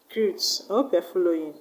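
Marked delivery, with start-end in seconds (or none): 0.1-0.4 "Recruit" with the stress on CRUIT; stress on second syllable. Shown as a demonstration. Teacher showing a verb's stress, "Recruit" stressed on CRUIT. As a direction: barely say "Re" in "Recruit", land on CRUIT. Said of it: "the stress will go to the second syllable".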